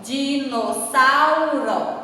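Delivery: "dinossauro" very slowly split into syllables; slow teacher's "dinossauro" with every syllable separated. Shown as a demonstration. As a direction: sound out "dinossauro" one syllable at a time. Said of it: "na separação".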